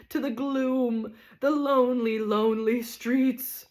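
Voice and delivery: milk the lonely streets; self-pitying tragedian. Acted.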